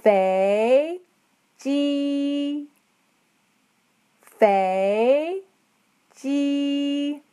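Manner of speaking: 飞 rising, 机 held high and level; 飞机 as féijī, rise then flat high; second then first tone. Shown as a demonstration. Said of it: "It's going up, the second tone, and flat".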